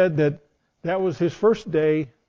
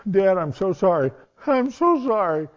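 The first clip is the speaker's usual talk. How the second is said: tearful apology; 3 semitones higher than usual. Retold or imitated. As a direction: say sorry as if the tears are just starting. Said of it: "the tears".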